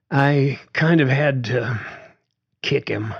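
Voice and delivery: a hint of a reluctant young woman; young daughter Susan. A narrator's reading. Susan confesses to her dad.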